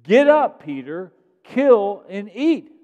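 loud, high commanding call, slowing on "kill and eat"; voice from heaven. Acted. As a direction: boom it out like God calling down. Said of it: "a voice said to Peter".

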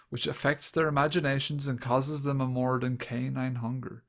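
put-on understated dramatic read of an old report. Shown as a demonstration. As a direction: read it out with mild solemnity. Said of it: "I'll just do it, like, dramatically".

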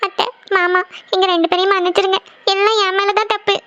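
mildly tearful, guilty apology; acted tearfulness. Daughter-in-law begging her in-laws' forgiveness, tearful. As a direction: take the blame as if near tears. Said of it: "ரெண்டு பேரும் அழுதுட்டு இருக்கீங்க".

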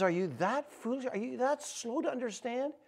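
soft, hushed reproof; gentle chiding. Retold or imitated. Stranger to two travelers on the road, quietly chiding. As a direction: chide them quietly.

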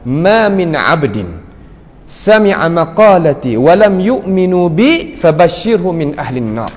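slow, drawn-out recited Arabic; Arabic scripture recitation. Acted. Preacher quoting the Prophet to the congregation, slow recitation. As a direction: recite the Prophet's words slowly.

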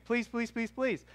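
quick repeated plea, pitched high; earnest pleading. Real, not acted. Preacher challenging the congregation to represent Jesus, pleading.

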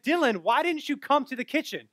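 mad wife. Retold or imitated. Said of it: "comes into the living room mad".

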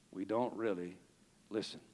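soft, low and hushed; dropped low and soft; quiet take. Shown as a demonstration. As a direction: say it almost to yourself. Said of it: "repeated at full voice".

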